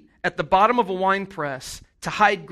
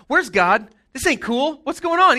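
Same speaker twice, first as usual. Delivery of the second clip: rising, louder exasperated questions; indignant complaint; 6 semitones higher, 4 dB louder than usual. Retold or imitated. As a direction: demand answers, building to a high squawk. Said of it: "Gideon's like".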